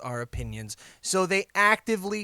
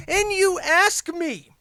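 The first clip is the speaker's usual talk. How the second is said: rising setup; 12 semitones higher, 5 dB louder, slower than usual. Acted. Sets up listener quote.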